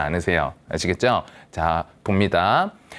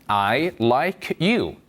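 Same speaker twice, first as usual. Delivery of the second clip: slow repeat; much slower than usual. Shown as a demonstration. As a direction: say it once more slowly. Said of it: "다시요". (한 번 더 천천히)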